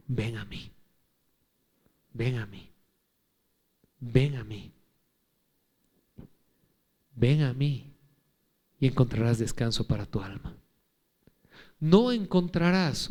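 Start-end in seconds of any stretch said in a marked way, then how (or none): 0.1-10.6 tender invitation. Acted. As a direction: invite gently, almost whispering. Voicing Jesus, soft and slow. (llamado suave y tierno, casi susurrado)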